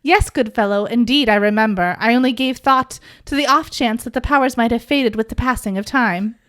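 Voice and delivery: lightly voiced archaic gentleman, mock formal; a hint of a stately old fellow; old-timey gentleman. Podcaster voicing Jace in old dude style, lightly mock formal. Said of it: "we're gonna do this in old dude".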